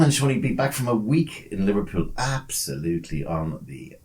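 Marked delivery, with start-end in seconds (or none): 2.2-4.0 spelled out slowly. Shown as a demonstration. Host spelling the word to his co-host, slow letters. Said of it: "That took me way too long to spell out".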